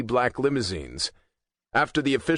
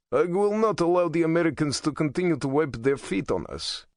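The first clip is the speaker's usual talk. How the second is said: bitter, higher-pitched venom; venomous; 7 semitones higher than usual. A narrator's reading. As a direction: spit the words with contempt. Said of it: "he said venomously".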